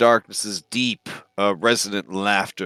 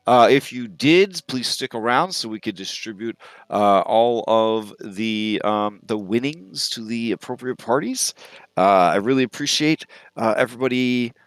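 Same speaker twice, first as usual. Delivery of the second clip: slightly higher, courteous host address; host character; 4 semitones higher than usual. Acted. Auction host thanks the guests, polite and formal. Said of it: "Honorable Shot Austin says".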